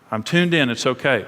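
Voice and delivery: reassuring security. Shown as a demonstration. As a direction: gently let a spouse know all is well. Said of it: "it's got to communicate security".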